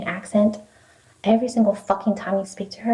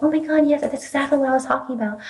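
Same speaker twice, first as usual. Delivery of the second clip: mocking Karen; 5 semitones higher than usual. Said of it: "starts cackling like a fucking hyena and be like".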